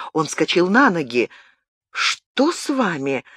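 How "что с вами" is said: slow, lightly surprised question. Acted. Diana asks Gabriel what is wrong, mildly surprised. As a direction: open your eyes wide on it, slowly. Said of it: "удивлённо раскрыла глаза Диана".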